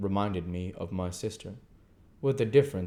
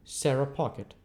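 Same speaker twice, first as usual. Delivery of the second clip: gentleman; 7 semitones higher than usual. Acted. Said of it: "returned Cousin Raymond".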